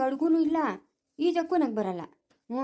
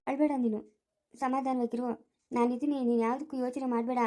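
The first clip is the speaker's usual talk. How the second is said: quiet, gentle reassurance; calm someone down softly; soothing; 3 dB quieter than usual. Acted. Neighbour tells worried woman not to fret, soothing.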